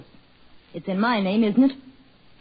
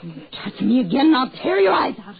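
fast threat; 3 semitones higher, 5 dB louder, faster than usual. Acted. Wife threatens husband.

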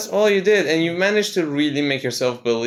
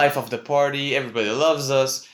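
mock cocky; 2 semitones higher than usual. Imitating Americans who think they're kings here, mock cocky. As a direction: imitate someone full of themselves.

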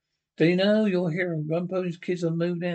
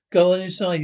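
barked command, louder; loud order; 6 dB louder than usual. Acted. Marshal ordering the gang into the cell, loud. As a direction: push them inside with a shout.

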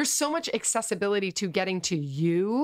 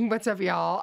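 Kentucky accent. Shown as a demonstration. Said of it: "Can you do the Kentucky accent?".

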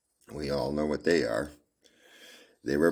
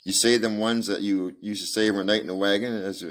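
put-on little girl; 4 semitones higher than usual. Little girl voiced in story.

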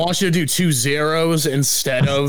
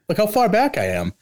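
echoing; 6 semitones higher than usual. Real, not acted. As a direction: echo from far back. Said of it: "Matt, you're echoing again".

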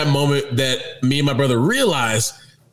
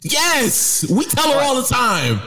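emphatic insistence; 9 semitones higher, slower than usual. Real, not acted. Insisting with raised voice.

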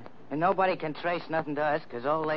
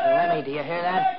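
alarmed; 5 dB louder than usual. Acted. Crooks hear news shouted outside.

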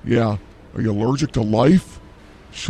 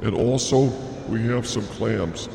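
meat counter announcer; 5 dB quieter than usual. Pretend. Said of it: "Bobby from the meat market".

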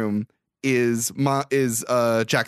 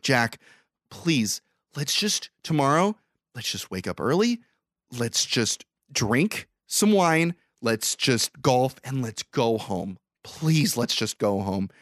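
pleading with Jack; slower than usual. Retold or imitated. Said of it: "he's pleading with Jack".

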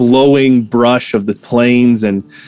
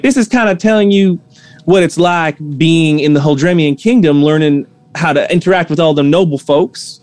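shopkeeper voice; 4 semitones higher than usual. Acted. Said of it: "She's like".

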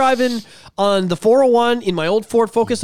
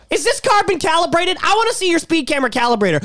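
higher-pitched, mock-indignant challenge; mock defiant citizen; 4 semitones higher than usual. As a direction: play at lecturing a cop on your rights. Acts out challenging a police officer.

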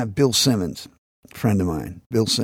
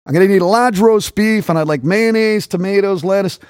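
acted order; 6 semitones higher than usual. Acted retry of sandwich order.

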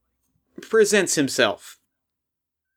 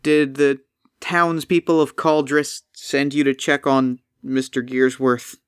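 weary golem. Acted. Golem voice held.

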